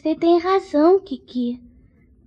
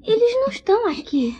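tearful; 3 dB quieter than usual. Acted. Finds friends gone, sob heard.

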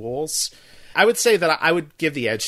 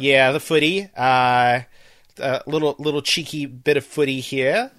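a vague hint of a British accent; half-attempt a cheeky British accent; half-hearted non-accent British; 3 dB louder than usual. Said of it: "that wasn't even an accent".

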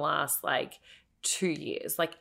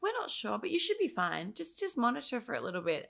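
high, airy, faster mock reassurance; mocking doctors; 5 semitones higher than usual. Patient mimicking doctors' vague advice, high airy mock.

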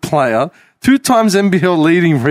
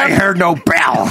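Rocky movie line. Pretend. Quoting Rocky trainer.

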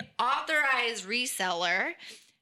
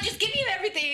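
exasperated demand; 9 semitones higher, faster than usual. Retold or imitated. Retold demand to store clerks.

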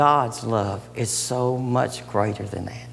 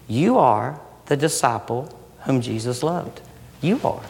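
earnest. Real, not acted.

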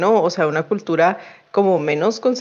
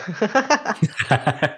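macabre laugh; 4 dB quieter than usual. Acted. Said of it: "La risa macabra de".

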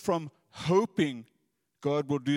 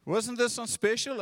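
imitating wife; 6 semitones higher than usual.

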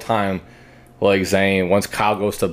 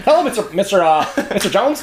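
higher, polite eager-employee greeting; talking to the boss; 9 semitones higher than usual. Acted. The speaker demos an employee greeting the boss in a higher polite voice. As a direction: suck up to the boss, pitch lifted. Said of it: "talking to your boss at work".

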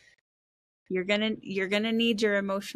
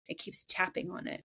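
whispered; 7 dB quieter than usual. Real, not acted. Soft aside repeating a point.

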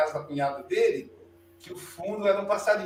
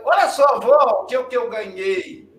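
put-on high, loud child's cry of delight; a small boy bursting to show his grandmother his gift; excited little boy; 3 semitones higher, 7 dB louder than usual. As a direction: show off the new bird to grandma, thrilled. Child showing grandma his bird.

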